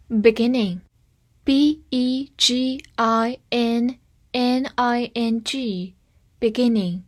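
very slow letter-by-letter spelling; drawn-out dictation; spelled out slowly. Shown as a demonstration. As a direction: spell each letter out for the class. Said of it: "spelling out the word".

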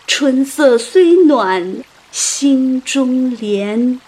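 slow, lingering verse reading; poetic recitation. A narrator's reading. Mourners' verse in modern words, slow poetic recitation. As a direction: recite with long held line endings.

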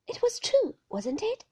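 high, loud pleading cry; urgent outburst. Acted. Wife crying out, demanding he admit it. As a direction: press him hard for the truth. Heroine pressing Maxim.

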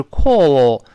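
slow British "call" with rounded vowel; drawn-out British demo of "call"; British pronunciation. Shown as a demonstration. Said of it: "英式发音是call".

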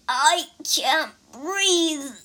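slow, strained cry for air; cried out. Acted. Wu Jing cries out, choking in the vest. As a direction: gasp it out in panic. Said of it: "cried Wu Jing".

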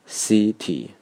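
"city" with a heavier, longer first syllable; stress on first syllable. Shown as a demonstration. Teacher showing vowel length under stress, first-syllable stress on "city". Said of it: "重音在第一个音节上".

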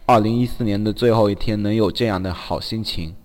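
slow, lyrical reading voice; slow recital. Acted. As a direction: read it like a prose poem. Reads listener's message aloud.

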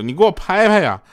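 high-pitched, irritated demand; annoyed wife. Retold or imitated. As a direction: imitate a wife getting cross. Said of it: "他老婆就有点生气了".

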